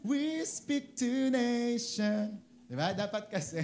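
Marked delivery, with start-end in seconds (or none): 0.1-2.4 mock declaration. Mimics declaration prayer.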